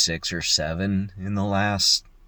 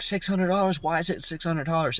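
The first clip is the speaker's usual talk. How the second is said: mock outrage; 11 semitones higher than usual. Husband outraged pacing.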